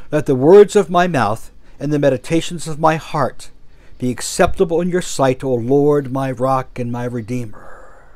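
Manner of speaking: measured prayer, easing off at the close. Real, not acted. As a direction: pray the verse, settling gently at the end. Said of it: "let this last part be a prayer".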